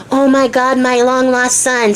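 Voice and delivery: mildly gushing, drawn-out delight; lightly acted overjoyed dad; imagined joyful father. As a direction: gush a little, stretching the words.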